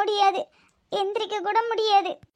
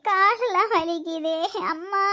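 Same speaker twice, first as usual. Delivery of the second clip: tearful whimper through the pain; crying in pain. Acted. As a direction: cry it out, hurting all over. Daughter-in-law in pain cries.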